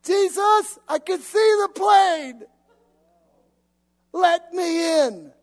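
high, loud, slow sobbing shout; desperate cry. Acted. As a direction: cry out to Jesus to let you in. Pleading to Jesus.

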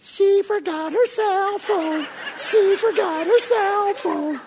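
high, slow taunting devil voice, laughing; sing-song gloat like the devil; gloating devil imitated, high and slow; mocking devil. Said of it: "And the devil's like".

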